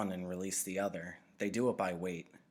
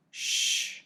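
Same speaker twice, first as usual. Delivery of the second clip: shushing; 8 dB louder than usual. Acted. Giver hushing Jonas at screen.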